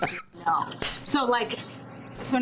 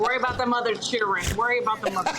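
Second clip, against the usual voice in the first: defiant comeback; faster than usual. Pretend. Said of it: "I throw it right back to him".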